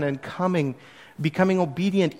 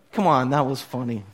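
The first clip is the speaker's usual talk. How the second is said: laughing; 4 semitones lower than usual. Real, not acted. Laughing after his own joke.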